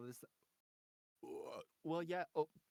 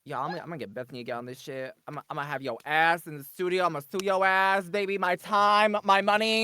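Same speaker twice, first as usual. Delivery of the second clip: mock threat building to a loud yell; mock ranting; 9 dB louder than usual. Performer threatens to sue over time and money, mock ranting.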